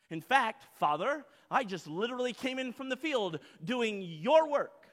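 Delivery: deliberate, self-righteous listing; slimy self-righteousness. Acted. Resentful son recounting his work to father, slimy self-righteousness. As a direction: lay out each good deed with weighty emphasis. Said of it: "Can you feel the sliminess of this?".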